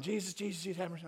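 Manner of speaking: subdued imitation of a shouter; half-voiced mimicry of pleading; mock yelling. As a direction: toss back his cries, softly. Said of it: "heard you yelling".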